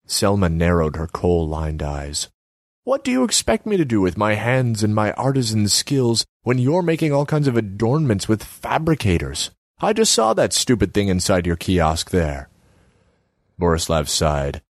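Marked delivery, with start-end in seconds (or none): 2.8-12.5 higher pitched, nagging artsy woman; Selma's voice. Acted. Selma needles Borislav about his empty kiosk, high voice.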